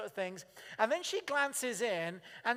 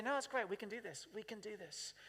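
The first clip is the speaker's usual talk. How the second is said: calm can-do; 10 dB quieter than usual. Retold or imitated. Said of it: "who just say".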